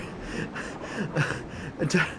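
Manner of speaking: breathy, voiceless panting; hyperventilating. Real, not acted. Player catching breath after the rescue, hyperventilating. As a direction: gasp for air after a panic. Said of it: "I'm hyperventilating just a little bit".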